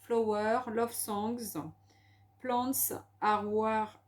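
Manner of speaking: slow, laboured English in a French accent; halting English, heavily French-accented. Real, not acted. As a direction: struggle through English words with a French accent. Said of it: "avec notre accent anglais pourri".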